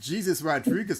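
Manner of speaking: ordinary talk, nothing marked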